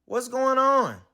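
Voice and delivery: a puzzled chimp voice; confused Jim. Acted. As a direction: wonder aloud, bewildered.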